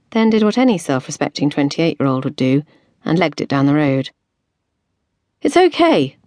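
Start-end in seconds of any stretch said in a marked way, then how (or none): 5.4-6.2 panting. A narrator's reading. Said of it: "panted Erin".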